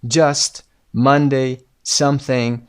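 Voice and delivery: Just, Monday, something with a short "uh" vowel; short vowel sound. Shown as a demonstration. Teacher models words for the sound exercise, short "uh" in Just, Monday, something. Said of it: "صدای آ کوتاه".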